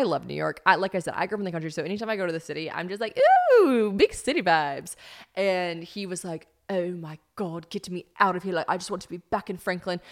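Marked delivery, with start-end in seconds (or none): 3.6-4.9 slow, drawn-out excited ooh; mock wide-eyed city excitement; wowed country visitor. Acting out her city excitement. 6.7-10.0 loosely imitated London accent; rough attempt at a London accent; bad London accent. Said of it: "He also doesn't talk like that. He always says my accent's so bad".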